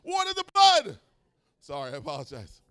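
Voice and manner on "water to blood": high, loud burst of joy; excited. Real, not acted. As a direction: blurt it out thrilled. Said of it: "I'm excited".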